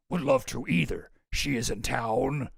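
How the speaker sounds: lightly voiced demon, slow and low; a hint of a sinister demon; evil demon voice. Shown as a demonstration. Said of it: "the evil demon voice".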